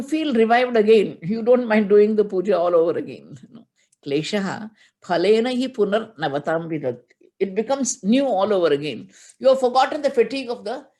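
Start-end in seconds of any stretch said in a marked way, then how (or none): 4.0-7.0 steady chanted Sanskrit recitation; scripture chant in class; verse recitation. Acted. Quoting verse again.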